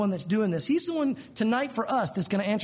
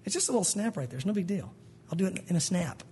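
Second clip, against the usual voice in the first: calm reassurance; 4 dB quieter than usual. Acted. God calmly answers the overwhelmed believer.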